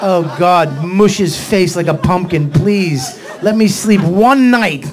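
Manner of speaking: loud, exasperated mock prayer; desperate plea. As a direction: beg heaven forcefully, building to the last words. Desperate prayer beside snoring partner.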